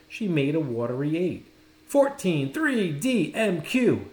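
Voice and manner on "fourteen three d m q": higher, louder quick calls of letters; teacher firing letters at the girl, calling out; called out. A narrator's reading. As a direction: rattle them off like a game. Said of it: "he shouted out".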